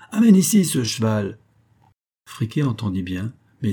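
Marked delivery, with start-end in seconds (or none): 0.1-1.4 ordre lancé fort, voix haute; ordre crié. A narrator's reading. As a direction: commande à pleine voix. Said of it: "cria D'Artagnan". (D'Artagnan ordonne en criant à Friquet)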